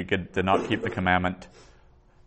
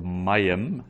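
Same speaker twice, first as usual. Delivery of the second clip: "mayim" slowed, weight on MA; stress on MA; 3 dB louder than usual. Shown as a demonstration. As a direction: lean on the first syllable of "mayim". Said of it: "the accent is on the ma".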